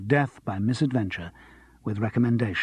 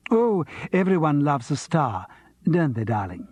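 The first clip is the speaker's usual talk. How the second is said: milk the word like a diva; theatrical diva; 3 semitones higher than usual. Acted. Vita's theatrical speech.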